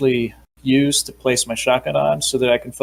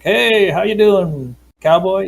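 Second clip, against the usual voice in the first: slow, higher, louder, a mock city-slicker hello; city boy greeting; 7 semitones higher, 4 dB louder, slower than usual. Player's city boy greeting a cowboy, slow hammed-up hello. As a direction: ham up a friendly city boy sizing up a cowboy. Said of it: "he's a bit more of a city boy".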